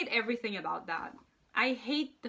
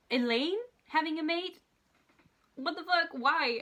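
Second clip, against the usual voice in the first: louder, higher, cries of disbelief; outraged disbelief; 6 semitones higher, 4 dB louder than usual. Real, not acted. Fan ranting to viewers about a mate twist, in outraged disbelief. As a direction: throw up your hands at the plot.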